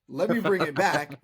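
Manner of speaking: hammed-up frat boy voice; frat bro. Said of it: "You sounded like a terrible frat boy".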